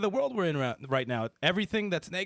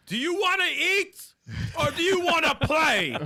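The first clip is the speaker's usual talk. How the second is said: slow, higher ad announcer pitch; commercial voice; 7 semitones higher, slower than usual. Pretend. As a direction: sell it like a TV spot. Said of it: "that'd be an awesome, uh, commercial".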